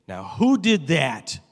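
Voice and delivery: mock stern nun, slow and loud. Nun questioning the little schoolboy, lightly acted stern. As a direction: draw it out like a stern teacher.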